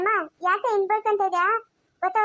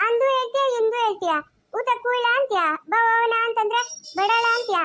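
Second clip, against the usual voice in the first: taunting complaint; 3 semitones higher than usual. Acted. Arguing with the one who refuses to come, sing-song taunt. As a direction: throw the complaints out in a lilting taunt.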